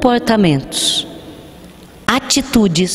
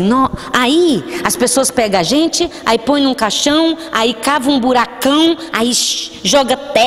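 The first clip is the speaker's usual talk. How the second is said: put-on child explaining; 5 semitones higher than usual.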